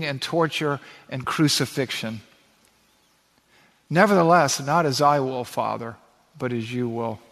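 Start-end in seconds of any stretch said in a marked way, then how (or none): 3.9-7.2 surrendered prayer. Acted. Jesus' prayer repeated with feeling.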